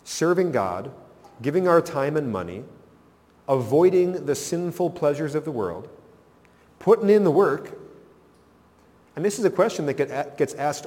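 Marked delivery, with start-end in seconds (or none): 0.0-7.8 self-righteous complaint. Retold or imitated. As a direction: list your good deeds with rising indignation. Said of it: "this thought process that says".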